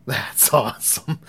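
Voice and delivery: slow, laughing through the word awesome; amused aloud. Retold or imitated. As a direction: let a laugh break into "awesome". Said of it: "And I couldn't say that".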